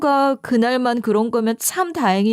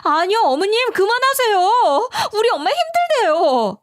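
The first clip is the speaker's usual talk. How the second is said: shouting at mother-in-law; 11 semitones higher than usual. Retold or imitated. Daughter-in-law yells at mother-in-law to stop. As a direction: cry out to make her stop. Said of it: "악을 질렀어요".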